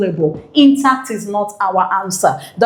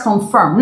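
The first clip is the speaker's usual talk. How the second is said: "confirm" stressed on FIRM; "confirm" with a light CON and stressed FIRM; stress on second syllable; 2 semitones lower than usual. Shown as a demonstration. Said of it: "stress the second syllable".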